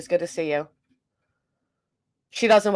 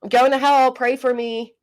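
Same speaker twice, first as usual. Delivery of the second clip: mock announcement; 5 semitones higher, 4 dB louder than usual. Acts out announcing her errand.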